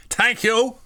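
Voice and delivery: high, loud mock Irish accent; badly faked Irish lady. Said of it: "you can't do an Irish accent".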